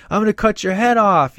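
high, loud put-on tough-guy threat; mock nasty threat. Rex showing Pip how to threaten hostages, hammed-up high threat. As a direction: overplay the menace like a goofball. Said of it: "talk nasty".

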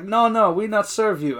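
broken English in a put-on Korean accent; imitated Korean accent. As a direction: imitate an older Korean woman refusing service. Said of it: "I'm doing this accent".

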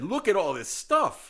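awed exclamation. Retold or imitated. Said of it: "and said".

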